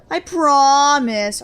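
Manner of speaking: slow, loud, drawn-out promise; exaggerated promise. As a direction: drag out the promise sarcastically.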